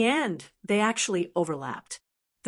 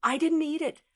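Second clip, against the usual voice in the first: sullen; 7 semitones higher than usual. A narrator's reading. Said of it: "The Heavenly Hound said sullenly".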